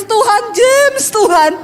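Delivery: preacher mocking a tearful prayer for a stranger's husband, fake sobbing plea. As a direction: pretend to cry out the name in prayer. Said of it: "Apalagi saya suruh menangis".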